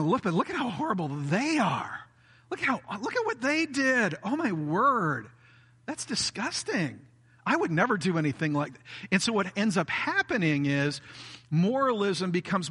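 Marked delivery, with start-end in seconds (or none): 0.0-8.8 mock disgust. Acted disgust at others.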